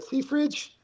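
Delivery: high, sing-song "See, Fridge?"; teasing told-you-so. Retold or imitated. Gloating to his teammate after the win, high and teasing. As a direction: rub it in with a big upward swing. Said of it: "and I said".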